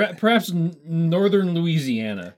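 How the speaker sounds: hammed-up northern Louisiana accent. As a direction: stretch it out in mock Louisiana accent. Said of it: "not very Cajun. Maybe the teeniest bit".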